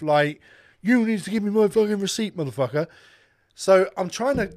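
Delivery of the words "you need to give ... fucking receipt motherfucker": firm, forceful demand with a slightly raised pitch; assertive. Retold or imitated. Young customer demanding a receipt from the old cashier, assertively. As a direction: imitate a pushy, assertive customer. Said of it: "fucking fully assertive".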